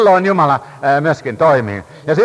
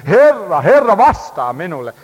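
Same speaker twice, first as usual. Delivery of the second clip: louder, higher cry of anguish; 3 semitones higher, 4 dB louder than usual. Retold or imitated. Elijah crying to God in anguish, loud and pleading. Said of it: "Tuskassa huutaa Elia siellä".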